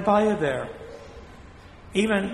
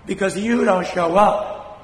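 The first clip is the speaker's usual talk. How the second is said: scolding; 3 semitones higher, 6 dB louder than usual. Real, not acted. Priest scolding absent parishioners.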